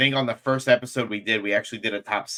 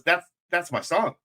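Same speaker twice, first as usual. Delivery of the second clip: retold excited recognition; 7 semitones higher than usual. Acting singer spotting own song.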